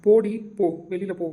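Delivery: angry shouted go away; furious shout. Acted. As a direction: drive her away with a shout. Husband ordering her out in anger.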